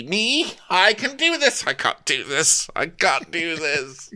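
squeaky high then sinking; imitating the captain's nervous self-talk; mock panic. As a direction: swing from pep to panic.

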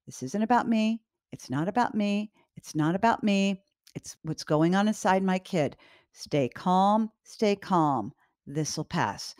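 calming mantra. Shown as a demonstration. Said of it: "repeat to yourself in the moment".

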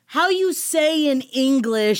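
slow, deliberate fake Spanish accent; mock Spanish accent. Mocking her cooking show slip, slow mock Spanish accent. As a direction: lightly imitate a faked Spanish accent. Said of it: "making fun of her a-, acento".

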